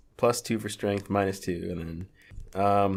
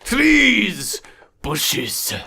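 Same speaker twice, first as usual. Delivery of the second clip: building comic list; 10 semitones higher, 5 dB louder, slower than usual. Acted. Escalating list of handshake partners.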